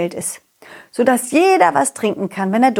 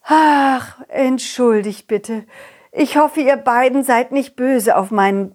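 embarrassed mother worm. Acted. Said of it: "etwas beschämt".

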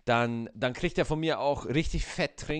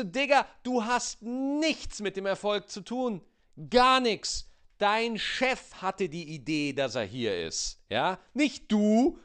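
much higher indignant mock scolding; mock telling-off; 10 semitones higher, slower than usual. Customer scolding the arrogant burger-shop waiter, high indignant mock voice. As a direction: cut the arrogant waiter down to size. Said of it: "Wo du dann denkst".

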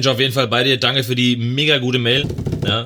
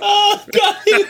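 squealed high laughing oh geil; delighted laughing squeal; 3 dB louder than usual. Real, not acted. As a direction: burst out in laughing joy. Reacts to dealer bit.

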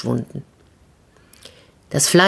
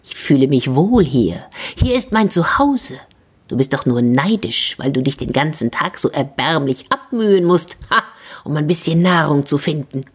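hissing snake. Acted. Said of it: "aus dem Bauch ebenfalls ein Zischen".

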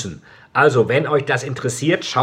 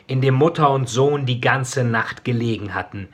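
story narration. A narrator's reading. Author reading his dark novel to listeners, solemn narration. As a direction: read it like a hushed tragic audiobook.

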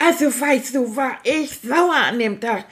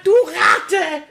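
retold yell at the thief; mock yell; 5 semitones higher, 3 dB louder than usual. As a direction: bark it out as a playful mock yell. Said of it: "ich hab auch noch gebrüllt".

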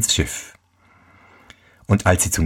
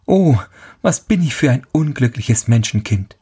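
raised, mildly wailing lament; a touch of despair, pleading to himself; mild storybook lament; 4 semitones higher than usual. Acted. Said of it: "und jammerte".

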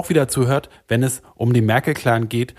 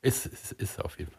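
meek whisper; 3 semitones lower, 14 dB quieter than usual. Acted. Host answers meekly.

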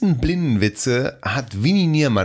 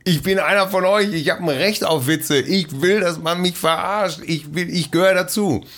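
raised, insistent protest; indignant outburst; 6 semitones higher than usual. Retold or imitated. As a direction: plead hotly to belong. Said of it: "Sagt er".

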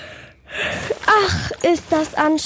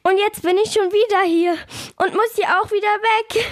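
close to tears; 6 semitones higher than usual. Acted. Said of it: "Jetzt hör doch auf zu weinen".

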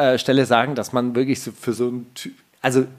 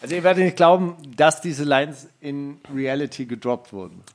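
clickbait video narrator. Pretend. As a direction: hype it like a YouTube thumbnail.

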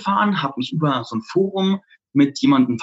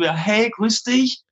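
timid, raised, halting question; nervous greeting; 5 semitones higher than usual. Retold or imitated. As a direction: ask shyly, unsure you've got the right guy. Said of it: "ganz nervös hin und sag so".

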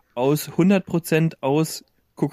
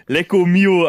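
pseudo-Italian phrase; 3 semitones higher, 6 dB louder, slower than usual. Retold or imitated. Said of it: "sowas sagen".

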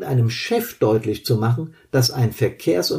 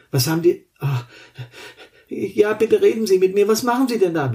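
fearful injured man; 6 semitones higher than usual. Acted. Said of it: "Die Perspektive des Verletzten".

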